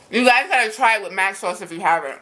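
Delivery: talking through a mouthful of burger; mouth full. Real, not acted. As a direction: speak with a mouth full of food. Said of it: "I'm talking with my mouth full".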